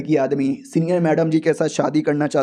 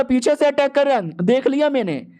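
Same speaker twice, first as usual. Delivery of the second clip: enemy voice; 6 semitones higher than usual. Acted. Enemy sure of attack from behind.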